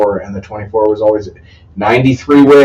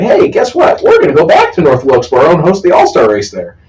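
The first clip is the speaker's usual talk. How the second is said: excited announcement voice; 4 semitones higher than usual. Pretend. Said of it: "nascar was like".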